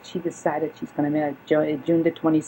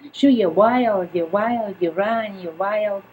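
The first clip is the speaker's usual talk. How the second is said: mother scolding; 3 semitones higher, 4 dB louder, slower than usual. Retold or imitated. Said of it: "Listen, Ma".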